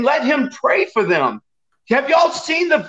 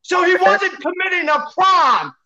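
angry; 5 semitones higher, slower than usual. Real, not acted. Heated debate outburst.

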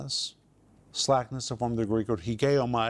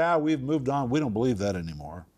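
mocking dismissal. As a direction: wave it off like a jaded ex-believer. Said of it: "people begin to mock".

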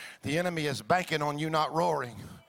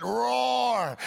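short shouted roar; mock battle roar; 5 semitones higher than usual. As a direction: roar like a lion ready to fight. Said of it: "a lion lets you know".

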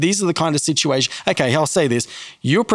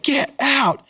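mock disbelief, much higher; imitating her gasped get out, pitched up high; stunned exclamation; 12 semitones higher than usual. Stranger hears the matching name, high startled get out. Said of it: "She went".

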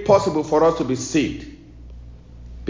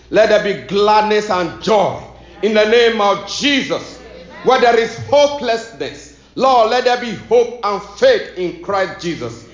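insistent intercession in rhythmic petitions; fervent prayer. Real, not acted. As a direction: pray with conviction for the listeners.

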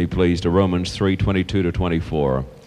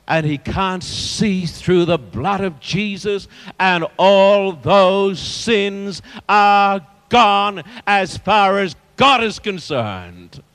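ringing declaration with stretched key words; deliberate, weighty preacher's delivery; emphatic preaching; 11 semitones higher, slower than usual. Real, not acted. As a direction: proclaim it firmly to the congregation. Preaches forgiveness of sins.

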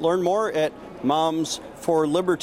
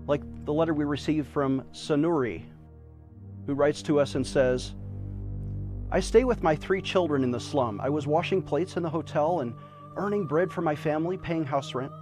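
charity appeal. Acted. Fundraising appeal over music.

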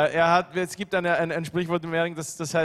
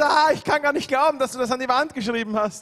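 higher, louder mock outburst; angry mother, toned down; 7 semitones higher, 4 dB louder than usual. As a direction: translate the mom's yelling with mild exasperation. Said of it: "dann werden sie richtig laut".

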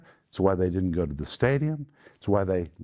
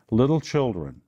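loud, raised, commanding call; emphatic address; 4 semitones higher, 5 dB louder than usual. Acted. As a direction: open the order forcefully. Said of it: "That's how emphatic it is in the Greek".

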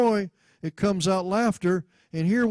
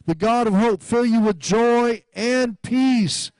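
declamatory scripture reading; 5 semitones higher, 3 dB louder than usual. Real, not acted. Declaims scripture over congregation.

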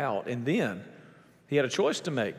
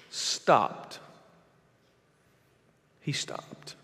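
dramatic whisper; 4 dB quieter, much slower than usual. Acted. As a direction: breathe it out in a whisper after a long pause. Dramatic pause on Jesus stopping.

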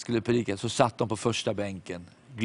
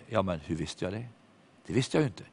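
much softer, lower musing; quiet inner thought; 4 semitones lower, 6 dB quieter than usual. Retold or imitated. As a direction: think it to yourself, puzzled. Preacher's private puzzled thought.

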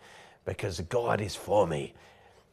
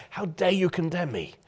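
high, indignant how dare you; defiant challenge; 7 semitones higher than usual. Shown as a demonstration. Believer faces down the enemy, indignant and defiant. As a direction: stand up to the enemy and demand it. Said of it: "get up in the face of the enemy and say".

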